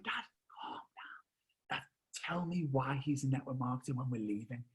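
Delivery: urgent cinema whisper; acted whisper to dad; hushed whisper. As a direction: whisper to calm him down. Son hushing dad inside cinema.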